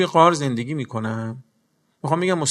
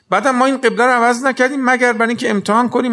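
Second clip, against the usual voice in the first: fervent; 8 semitones higher, 6 dB louder, faster than usual. Acted. Voicing God, fast and loud.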